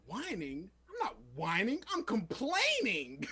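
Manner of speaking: indignant whine, rising and drawn out at the end; mock whining. Rarity protesting to her dog captors, mock whining. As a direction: act out a pampered complainer building to a protest. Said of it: "Would you please stop whining?".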